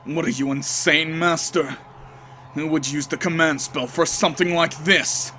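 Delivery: lightly voiced, disdainful knight; a hint of a cold, scornful swordsman; cool servant voice.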